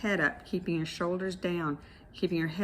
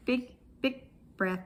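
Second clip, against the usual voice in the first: high-pitched E; 6 semitones higher than usual. Shown as a demonstration. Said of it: "doing a high-pitched E as high as you can".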